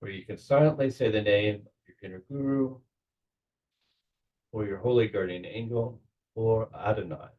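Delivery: measured meditation guide with long pauses; guided visualization. Acted. Leader settles the group into belly breathing, calm guided meditation. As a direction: guide them calmly, leaving space between phrases.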